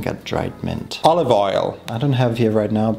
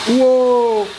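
startled whoa; 13 semitones higher, 4 dB louder than usual. Real, not acted. Lid slipping while cooking.

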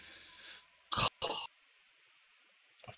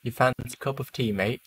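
mock British accent; 4 semitones higher than usual. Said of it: "add my nice British accent".

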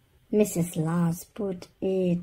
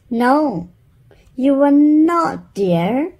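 louder, raised firm refusal; 7 semitones higher, 8 dB louder than usual. Acted. Wife overruling husband, raised and firm. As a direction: shut him down sweetly but firmly.

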